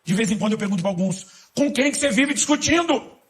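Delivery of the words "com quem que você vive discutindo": high, loud, slow mocking question; exaggerated mock question; mock incredulous question. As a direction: ham up the baffled asker. Preacher mocks arguing believer.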